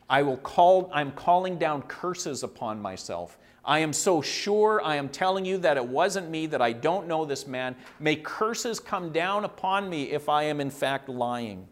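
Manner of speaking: measured, weighty mock oath; emphatic denial. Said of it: "he becomes so emphatic that it wasn't him".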